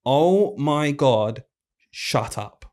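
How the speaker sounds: slow, drawn-out inner exasperation; exasperated inner voice. Retold or imitated. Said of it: "in my head thinking genuinely".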